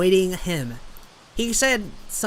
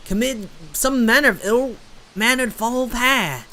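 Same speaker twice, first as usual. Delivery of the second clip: lighthouse keeper in a put-on southern accent. The lighthouse keeper guessing their purpose in a southern accent. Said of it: "gotta be consistent with this accent".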